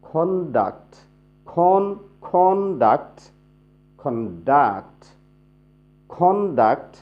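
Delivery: "কন্ডাক্ট" shown with a strong "কন", then with a strong "ডাক্ট"; stress alternating by syllable. Shown as a demonstration. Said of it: "অনুরূপভাবে". ("কন্ডাক্ট"-এ জোর একবার "কন", একবার "ডাক্ট"-এ)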